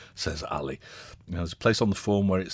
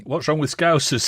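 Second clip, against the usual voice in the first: mock indignation; 8 semitones higher, 7 dB louder than usual. Host reading a text with a mock-indignant tone.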